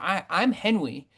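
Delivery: lightly voiced toddler; baby voice. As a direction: babble it like a small child. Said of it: "like, a baby voice".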